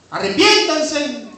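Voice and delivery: loud, slow, high call to repent. Retold or imitated. Preacher voicing Isaiah calling the people to repent, loud. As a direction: stretch it out as a plea. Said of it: "diría yo, si Isaías".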